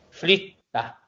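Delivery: "Flita" with a short clipped i before the double t; short i, stress on tt. Shown as a demonstration. Teacher demonstrating a short vowel in "Flita". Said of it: "la acentuación la quiero hacer en, en las dos T".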